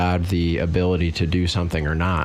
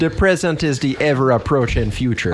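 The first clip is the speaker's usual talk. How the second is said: put-on laughing through a Jamaican accent; playful Jamaican accent delivery; 3 semitones higher than usual. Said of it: "you gotta say it in a Jamaican accent".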